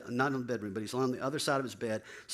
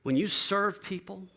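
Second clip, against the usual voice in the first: higher, louder, slow proclamation; raised, emphatic sermon voice; preaching emphasis; 8 semitones higher, 5 dB louder, slower than usual. Real, not acted. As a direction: drive the point home to the congregation. Preaching climax.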